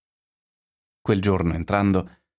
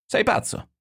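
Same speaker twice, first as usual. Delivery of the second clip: shrieked, much higher and changed voice; astonished shout. A narrator's reading. Firbo, stunned, shouting at the narrator in a high shriek. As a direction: hurl it in disbelief. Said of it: "gridò".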